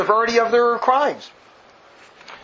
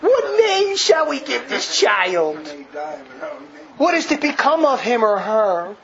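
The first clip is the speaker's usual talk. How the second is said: mock sentimental reading; slower than usual. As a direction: drag it out like a syrupy eulogy. Mocks the speech's sentimental tone.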